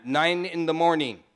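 firm Trinidadian boss imitation; put-on Trinidadian accent; mimicked Trinidadian accent. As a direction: answer as the Trinidadian old boy. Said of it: "I can mimic that old boy".

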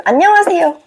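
high, carrying hello; lifted, projected demo greeting; greeting in calling tone. Shown as a demonstration. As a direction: say hello with the voice used to call mom. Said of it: "그 톤으로".

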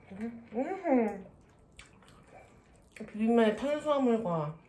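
slurping noodles while talking; chewing between words; mouth full of noodles. Real, not acted. Seen 2: Eats noodles throughout labelled words; mouth full, slurping, chewing.

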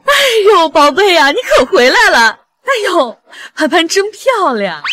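gushing, drawn-out admiration; gushing welcome. Acted. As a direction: coo over a darling guest. Mother fussing over arriving guest.

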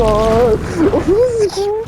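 very high, long drawn-out shriek; real panic, stretched scream; terrified scream. Real, not acted. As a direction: scream it as the thing reaches you. Monster catches up.

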